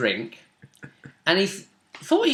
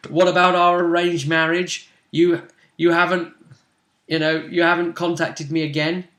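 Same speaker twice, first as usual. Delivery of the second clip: brawny Avar woman; 2 semitones higher than usual. Acted. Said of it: "she slaps her own chest".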